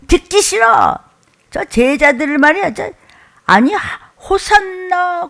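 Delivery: starts high, indignant scolding of the disciples; mock Pharisee scolding. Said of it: "막 야단을 치고". (야단치는 바리새인 흉내)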